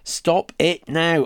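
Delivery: loud, slow frightened yell. Acted. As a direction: yell at her to stop. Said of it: "I yelled".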